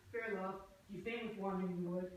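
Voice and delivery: usual speaking voice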